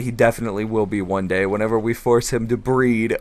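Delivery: ordinary delivery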